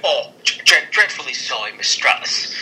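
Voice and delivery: stammered attempt at a British accent; bad Regal accent. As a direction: put on a poor British accent, tripping over the start. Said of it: "That was not Regal".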